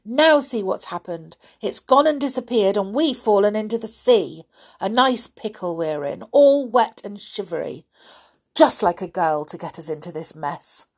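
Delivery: loud, cross grumbling; Binky blames Molly, crossly and loud; angry. Acted. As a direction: keep scolding her, loud. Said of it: "said Binky angrily".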